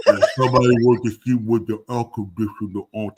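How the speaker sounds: put-on low, thick Austrian-accented muscleman voice; hammed-up movie tough guy impression; Arnold Schwarzenegger. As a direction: imitate a deep action-hero accent. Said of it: "Talking like Arnold Schwarzenegger".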